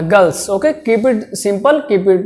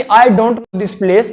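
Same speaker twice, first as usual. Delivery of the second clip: slow full phrase; much slower than usual. Shown as a demonstration. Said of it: "बजाय इसके कि".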